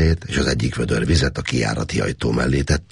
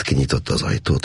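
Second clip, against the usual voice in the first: plain reading voice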